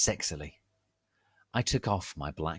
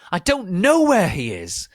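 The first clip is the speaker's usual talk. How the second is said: mock frightened plea; 11 semitones higher, 11 dB louder than usual. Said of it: "said Lupin".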